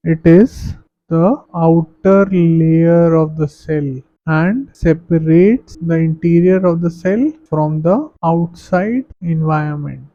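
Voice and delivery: very slow, even reading of notes; slow classroom dictation. Acted. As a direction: spell the definition out for students to copy. Dictates English definition to class.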